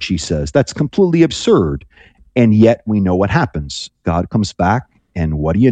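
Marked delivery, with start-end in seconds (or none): 0.5-1.8 lightly voiced disbelief, pitched higher; a touch of mocking incredulity; mild mockery. Sarah scoffs at God's promise of a child, mildly mocking. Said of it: "it's a kind of a mockery".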